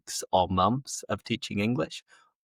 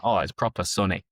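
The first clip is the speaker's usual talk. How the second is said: Yorkshire sunny. Retold or imitated. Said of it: "So it's like".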